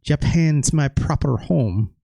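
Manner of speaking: put-on unsure stab at an Irish accent; shaky Irish accent. Streamer reading Dynamite Kid, doubtful Irish accent. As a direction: attempt an Irish brogue and doubt it. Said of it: "I don't know about this accent".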